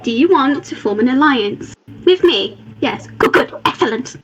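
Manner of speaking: lightly put-on meme voice; TikTok meme voice. Player quoting a TikTok meme about alliances, lightly mimicking. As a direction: imitate a meme character, only slightly exaggerated. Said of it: "like that TikTok meme where they're like".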